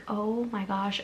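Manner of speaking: breathless, tearful "oh my gosh"; overwhelmed winner barely getting the words out; choked whisper. Retold or imitated. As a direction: whisper it as the tears come. And I start bawling again.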